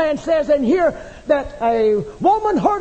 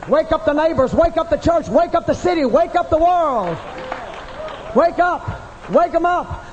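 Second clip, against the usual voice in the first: raised, insistent chant, building higher; rousing holler; 4 semitones higher than usual. Acted. Preacher rouses church, neighbors and city, rousing holler. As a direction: holler it in driving repeats.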